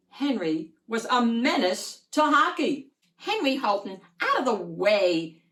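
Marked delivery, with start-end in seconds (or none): 3.2-5.4 loud bossy yell; yelling sister. Acted. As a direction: shove him off the ice with your voice. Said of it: "Sally yelled".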